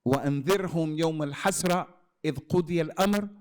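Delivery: rapid chanted Arabic recitation; Quran recitation. Real, not acted. Preacher reciting the ayah to his audience, rapid recitation. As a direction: recite the verse swiftly in tajwid. Quoting Quran verse in sermon.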